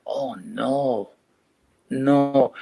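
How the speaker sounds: put-on a light take on a stuffy, nasal old gent's voice; puffy-nosed posh manager. Manager in mohair suit addressing the squad, lightly mimicked posh voice. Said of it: "and talking like this, ... puffy-nosed accent".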